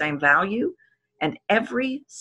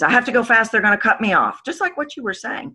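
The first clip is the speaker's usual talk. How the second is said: anxious rushing; 5 semitones higher, 4 dB louder, faster than usual. Retold or imitated. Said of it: "the stories you've been told".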